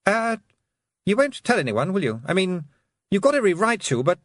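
put-on high, anxious boyish pleading; nervous Roland voice. A narrator's reading. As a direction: beg nervously like a guilty boy.

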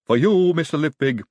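odd high, loud servile voice; lisping lab-assistant flourish; Igor the servant. A narrator's reading. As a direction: offer it like an eccentric henchman. Igor the servant offers a drink.

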